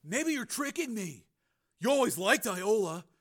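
high, soft, wary; hushed suspicion. A narrator's reading. Brother suspecting Frank of tricks, hushed suspicion. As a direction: mull it over distrustfully.

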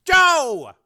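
high, loud shout of a name; urgent yell. A narrator's reading. Frank to his brother's face, urgent yell. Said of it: "Frank yelled into his brother's face".

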